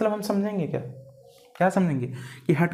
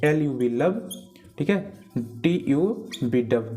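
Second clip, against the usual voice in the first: slow spelling; 2 semitones lower, slower than usual. Shown as a demonstration. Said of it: "spells lub dub".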